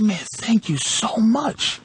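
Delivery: slow, heavily sarcastic gratitude; retold sarcasm, drawn out; sarcastic thanks. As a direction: drag out the thanks in mock gratitude.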